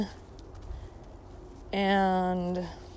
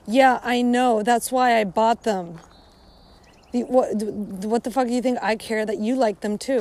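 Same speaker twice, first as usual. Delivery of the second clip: annoyed retort; 5 dB louder than usual. Pretend. Ranting reply to imagined compliment.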